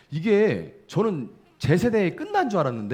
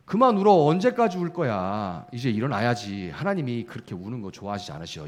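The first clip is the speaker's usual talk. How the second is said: mock scolding comforter; 3 semitones lower than usual. Scolding churchgoer voiced.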